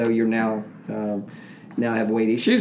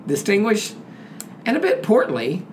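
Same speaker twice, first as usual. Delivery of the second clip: announcer intro. Acted. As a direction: build up the guest with mock pomp. Host introduces guest.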